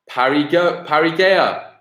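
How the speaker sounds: Parigea said as parry-GAY-a; botched pronunciation. Real, not acted. Quiz host botching a team name, mispronounced as Parigea. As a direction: stumble into Parigea, with a GAY sound in it. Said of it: "my pronunciation of that team is awful".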